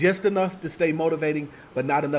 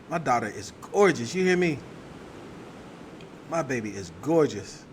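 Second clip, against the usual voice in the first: sweet nothings; 3 semitones lower, 4 dB quieter than usual. Real, not acted. Doting on her daughter.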